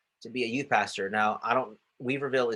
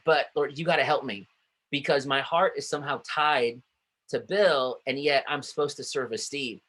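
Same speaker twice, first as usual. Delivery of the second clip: pleading prayer; 3 semitones higher than usual. Retold or imitated. Pastor praying for help serving new leader, pleading. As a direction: pour it out like a desperate prayer. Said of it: "And I'm like".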